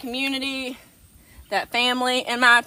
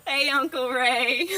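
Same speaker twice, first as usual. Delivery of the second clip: slow silly voice; slower than usual. Pretend. Goat voice greeting.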